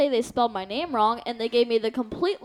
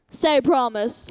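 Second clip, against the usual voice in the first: slow, drawn-out imitation of mom; retold mom's demand; much slower than usual. Daughter retells mom demanding her dad promise, slow and controlled. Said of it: "so she was like".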